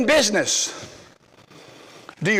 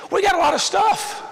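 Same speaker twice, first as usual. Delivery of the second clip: raised-pitch sermon shout; emphatic shout; 10 semitones higher than usual. Real, not acted. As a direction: drive it home at full voice. Preacher emphatic climax.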